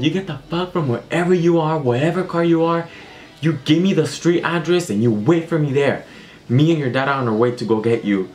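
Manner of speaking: high-pitched, slowed furious mom impression; mock angry mom. Mom on phone to daughter out all night, high mock yell. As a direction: play mom losing it on the phone. Mom ordering her home.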